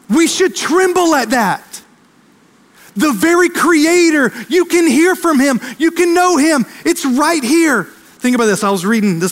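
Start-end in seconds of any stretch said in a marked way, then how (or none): 0.1-7.8 higher, urgent preaching, building; climbing sermon intensity; rising preaching fervor. Acted. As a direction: lift them into awe of God speaking.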